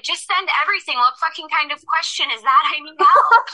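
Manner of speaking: high, loud, frantic plea; frantic yell. Retold or imitated. Frightened caller yelling at the dispatcher, high and loud. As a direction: shout it at the dispatcher, panicked. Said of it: "And I was like".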